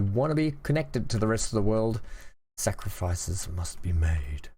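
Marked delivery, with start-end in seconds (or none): 2.6-4.5 slow, lightly sinister villain; a hint of a mad doctor; evil doctor voice. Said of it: "I sound like an evil doctor".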